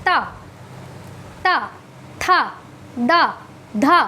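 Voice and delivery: ता, था, दा, धा with tongue on the teeth; dental sounds. Shown as a demonstration. Teacher models the dental row, tongue at teeth for ता, था, दा, धा. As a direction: drill ता, था, दा, धा one at a time, dental. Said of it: "उच्चारण दंत से".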